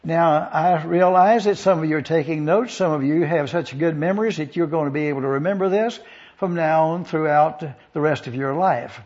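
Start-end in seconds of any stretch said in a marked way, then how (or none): 2.7-9.0 sarcastic. Real, not acted. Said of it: "that's a little sarcasm".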